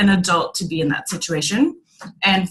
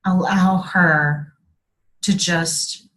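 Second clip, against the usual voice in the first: hushed real whisper; 4 semitones lower, slower than usual. Real, not acted. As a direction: breathe the words out, barely voiced. Tender closing reflection on inner child.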